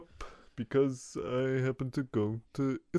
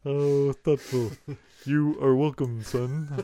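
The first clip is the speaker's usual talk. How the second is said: Carl Sagan imitation. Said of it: "Everyone in town talks like Carl Sagan".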